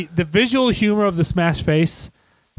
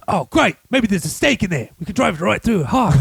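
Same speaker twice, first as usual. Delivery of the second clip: higher, put-on sarcastic delight; character impression; 4 semitones higher than usual. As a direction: lightly imitate a mischievous character. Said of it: "and he goes".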